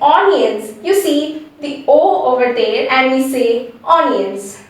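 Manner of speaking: "onions" said with an O at the start, as spelt; mispronounced onions. Shown as a demonstration. Teacher shows learners the common mistake, mispronounced by its spelling. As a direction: say "onions" with a round O sound first. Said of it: "the actual correct pronunciation is".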